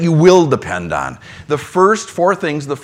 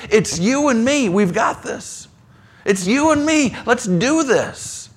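Jesus reassuring; 6 semitones higher than usual. Acted. Jesus's answer every time.

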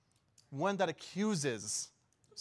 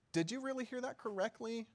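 accusing; 7 semitones higher than usual. Acted. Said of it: "Accusing you".

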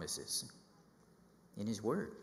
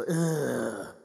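a loud fed-up ugh; exasperated groan; 5 dB louder than usual. Retold or imitated. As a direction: let out a sound of mock despair. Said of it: "You just go".

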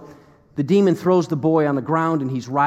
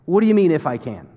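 indignant rebuke; faster than usual. Retold or imitated. Jesus rebuking the doubting father, indignant. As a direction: throw his words back at him. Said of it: "Jesus follows that up with what you could imagine".

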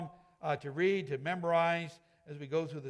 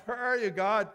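louder, higher cry out to God; mock desperate yell; 4 semitones higher, 4 dB louder than usual. Struggling believer cries out to God, a mild mock yell. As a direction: call out like someone lost and afraid. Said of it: "We might be yelling that out".

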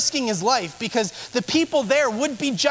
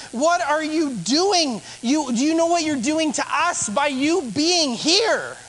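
higher, indignant acted scolding; yelling at him; 4 semitones higher than usual. Crowd confronting the unclean man, indignant yelling. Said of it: "yell at him and curse at him".

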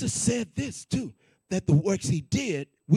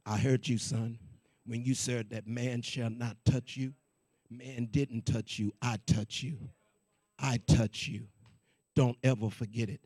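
voice of God; 8 semitones lower, 6 dB quieter than usual. Retold or imitated. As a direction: lower the voice and speak as God, gravely and firmly. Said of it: "that's when God said".

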